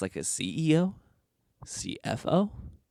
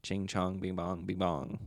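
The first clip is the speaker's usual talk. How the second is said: mock Asian accent; 6 dB quieter than usual. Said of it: "my impersonation of a white people doing an Asian accent".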